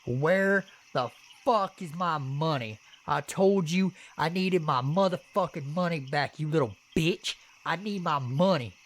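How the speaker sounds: put-on high-pitched yelling drunk teenager; drunk screaming. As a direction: yell it in a kid's face, sloppy drunk. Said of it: "starts screaming in my face".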